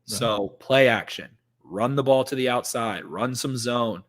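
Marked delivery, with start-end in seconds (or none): 0.1-1.3 "play" hit hard and slow; stress on play. Shown as a demonstration. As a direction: lean on "play", drawn out. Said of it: "a huge emphasis on that syllable".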